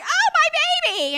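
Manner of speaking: high, loud, slow cry of alarm; a startled mother clutching her child; frightened mother in the park. Retold or imitated. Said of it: "And she was like".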